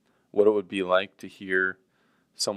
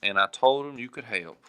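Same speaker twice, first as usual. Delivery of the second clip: slow, polite letter read while typing; slow typing dictation; 5 dB louder, slower than usual. Shown as a demonstration. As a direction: sign off sweetly. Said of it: "Here, I'll do it right now".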